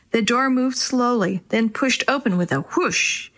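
usual speaking voice

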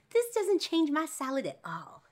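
high, loud, drawn-out silly declaration; gleeful mock-dad squeal; comic dad voice. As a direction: proclaim it slowly in a hammed-up high voice. Dad's line repeated in silly voice.

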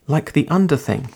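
UNDER lifted, then falling away; statement. Acted. Girl describing somewhere cosy, falling statement. Girl names her home.

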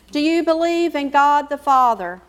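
usual speaking voice

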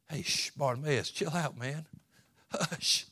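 soft, low shushing; hushing. Acted. Crowd hushing blind Bartimaeus, quiet and low. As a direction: hush him down.

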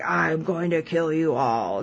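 a lightly voiced unhinged threat; crazy sounding. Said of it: "crazy sounding".

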